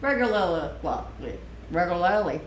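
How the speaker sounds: "Regularly" tried aloud with tangled r and l sounds; struggling to pronounce. Shown as a demonstration. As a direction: stumble over the r and l in "Regularly". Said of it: "the word I can't say in my accent".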